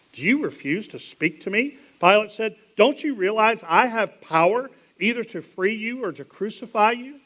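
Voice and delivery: demanding. Acted. Pilate demanding.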